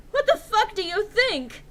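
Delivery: high, loud snapping reply; angry retort. A narrator's reading. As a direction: throw the question back at her, furious. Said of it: "I asked angrily".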